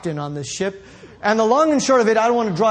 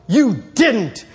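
higher and louder, with a laugh; retold scolding; 5 semitones higher, 4 dB louder than usual. Casting agent scolding the actor over the phone, higher and louder. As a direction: scold him half laughing, in disbelief.

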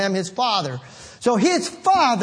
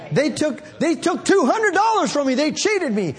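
whiny complaint; 7 semitones higher than usual. Retold or imitated. Mocking a cheated complainer.

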